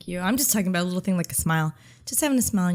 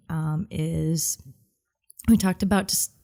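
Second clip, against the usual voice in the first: ordinary talk, nothing marked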